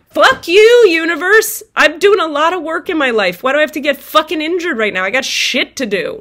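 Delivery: hurt and furious, yelling at God from the car; furious yell at the universe. Retold or imitated. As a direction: scream your fury up at the sky. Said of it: "and I'm yelling".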